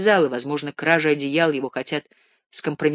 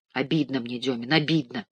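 softer, a touch of a groan; moaning hurt; 2 semitones lower, 5 dB quieter than usual. Acted. Ganechka complaining to Demin, softly moaning. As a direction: moan it quietly, wounded. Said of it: "простонал Ганечка".

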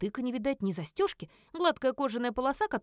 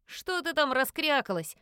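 grumbling; 4 semitones higher, slower than usual. Acted. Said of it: "проворчал Эдвард".

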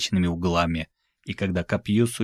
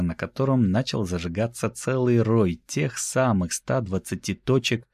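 plain reading voice

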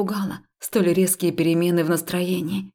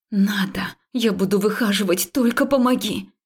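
hissing; 2 semitones higher than usual. Acted. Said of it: "Я уже шипела".

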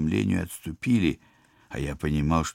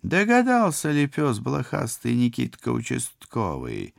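laughing; 8 semitones higher, 3 dB louder than usual. Acted. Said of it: "захохотал наш преступный злодей".

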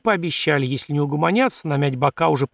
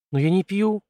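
higher, tentative protest; flustered objection; 5 semitones higher than usual. Acted. Young prince trying to refuse the vodka, flustered. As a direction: object weakly, at a loss. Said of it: "попытался возразить растерянно озиравшийся цесаревич".

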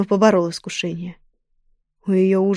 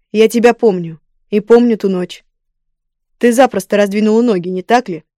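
louder, contemptuous royal sneer; cold rasping evil emperor; 6 dB louder than usual. Acted. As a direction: sneer at her coldly. King scorns the woman.

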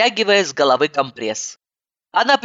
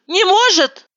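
может stressed higher and louder; emphatic repeat; 4 dB louder than usual. Acted. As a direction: punch может again. Repeated insistence.

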